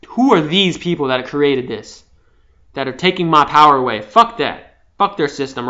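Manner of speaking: a touch of loud defiant anger; imitating anger. Voicing revenge against the system, mild mock anger. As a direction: spit out the grudge, half acted. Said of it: "Revenge, anger".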